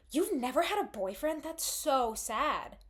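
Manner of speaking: rising disbelief on "had", then a slow drawn-out "so sad"; mock shocked pity. Friends reacting to her never dating, shocked then slowly pitying. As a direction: act stunned, then drag out the pity. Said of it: "And they go".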